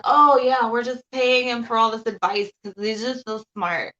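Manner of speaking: loud, sarcastic mock of gullible fans; mocking quote. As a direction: sneer it out like a naive believer. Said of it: "all these people are just like".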